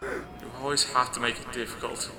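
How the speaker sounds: soft, grudging inner voice; sand-on-glass voice. Acted. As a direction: complain quietly as the voice in her head. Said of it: "like sand on glass, it sounds like".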